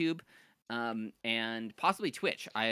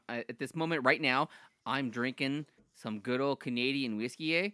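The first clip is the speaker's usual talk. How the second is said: put-on jokey Minnesotan accent. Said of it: "you don't like my Minnesotan accent".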